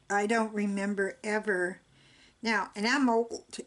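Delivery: talking through the hiccups; hiccuping between words. Real, not acted. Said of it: "I've got the hiccups again".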